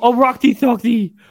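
put-on lisp. Retelling how the speaker talks to her so she understands: put-on lisp. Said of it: "So I talk to her with a lisp so she understands".

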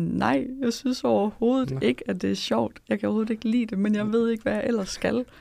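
breaking down in tears, pitched high. Recalling being asked whether they enjoyed it, retelling a crying breakdown. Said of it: "Og jeg bare bryder grædende sammen og sådan".

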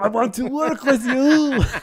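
terrible, clumsy put-on Austrian accent, loud and slow. Talking about an action movie, speaker does a bad Schwarzenegger Austrian accent. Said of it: "that was one of the worst Schwarzenegger impressions".

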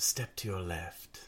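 soft whispered voice, sensuous and fiendish. Voicing a fiend speaking in the player's head: soft, sensuous, fiendish voice. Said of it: "very, like, soft, sensuous, kind of fiendish voice".

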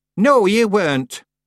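curt, sharp voice. The householder contradicts an intruder's excuse, sharply. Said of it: "said Miss Treason sharply".

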